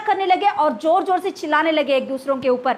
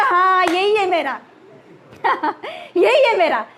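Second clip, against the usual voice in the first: put-on happy child. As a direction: claim it gladly like a child. Child recognizing his coin. (खुश बच्चे की धीमी आवाज़)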